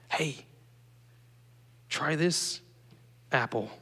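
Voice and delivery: hushed, softly tempting serpent; soft, sly murmur, spaced out; serpent's whisper. Acted. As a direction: tempt Eve under your breath, with pauses. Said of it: "it was whispering to".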